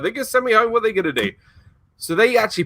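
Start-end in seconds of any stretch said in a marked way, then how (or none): 0.0-1.3 higher-pitched mock fretting; retold worry. Would-be lifeguard retelling his fear of being sent home, mock worried. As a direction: replay your worry in a raised pitch.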